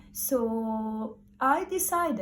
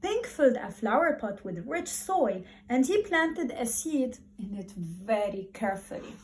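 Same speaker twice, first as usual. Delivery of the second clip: lively, expressive storybook reading voice; reading to children. Acted. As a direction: read it to the class like a favourite picture book. Teacher reads story to class.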